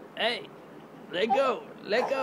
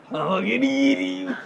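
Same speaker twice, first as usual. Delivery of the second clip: higher, louder playful threat; playful chase; 9 semitones higher, 4 dB louder than usual. Pretend. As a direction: chase the baby in play.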